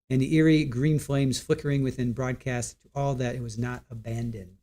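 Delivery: a spooky tale read aloud with gentle drama; story narration. Acted. Reading a creepy story to the stream, lightly dramatic. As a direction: paint the bleak coast for the viewers.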